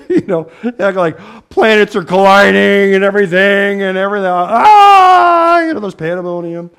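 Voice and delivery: laughing. Real, not acted. Laughing description of mock chaos.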